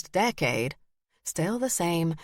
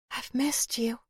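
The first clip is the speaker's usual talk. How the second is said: soft breathy whisper, higher; 6 semitones higher, 3 dB quieter than usual. Acted. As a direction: breathe it out, barely voiced. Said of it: "spoken in that breathy voice".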